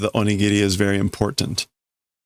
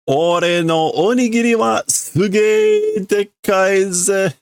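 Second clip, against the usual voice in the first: higher, slow and proud, bragging about a huge rice ball; boastful kid voice; 10 semitones higher, 3 dB louder, slower than usual. Acted. Boy brags to Yotsuba about his onigiri, proud and higher. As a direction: show off your giant onigiri.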